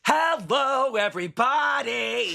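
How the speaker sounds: big stagey showbiz hello; showbiz host. Pretend. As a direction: play a vaudeville host greeting. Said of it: "So a singer".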